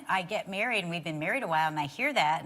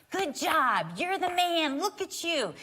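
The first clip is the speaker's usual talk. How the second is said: imitating cheering; 8 semitones higher, slower than usual. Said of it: "cheering for us".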